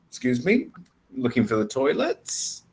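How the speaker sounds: "me" and "toilets" both lifted in pitch; voice rising at end. Shown as a demonstration. Teacher shows how statements become questions, rising voice. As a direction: make "toilets" climb into a question. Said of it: "just by rising your voice up at the end".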